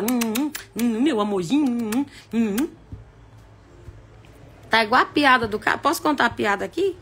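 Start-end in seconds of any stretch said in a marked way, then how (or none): 0.0-2.7 cooing little hums of affection; mock lovey-dovey. Sappy couple at every hour, mock cooing. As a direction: imitate a sappy couple nuzzling. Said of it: "ou vocês acham que é toda hora".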